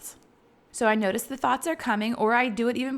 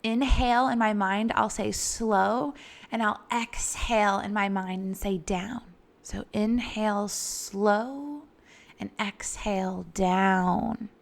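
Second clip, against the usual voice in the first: slow mantra. Shown as a demonstration. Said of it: "Some of my favorites are".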